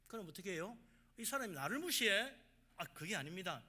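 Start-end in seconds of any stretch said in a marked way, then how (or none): 1.2-2.3 loud, high indignant challenge; offended boss. Acted. Boss to employee refusing a drink, loudly indignant. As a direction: take offence, voice jumping up.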